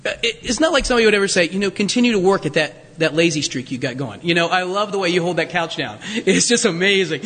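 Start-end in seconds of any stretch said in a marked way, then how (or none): 1.7-7.2 mock encouragement. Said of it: "mock praise of laziness".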